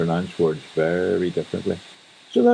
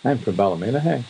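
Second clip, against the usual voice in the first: Antrim hey; 4 semitones higher than usual. Shown as a demonstration. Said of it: "it'll end with hey".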